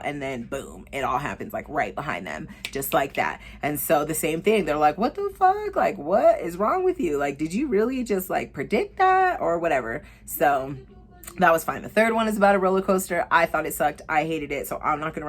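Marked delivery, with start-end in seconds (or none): 5.0-10.0 shocked friends. Retold or imitated. Friends react to her prediction.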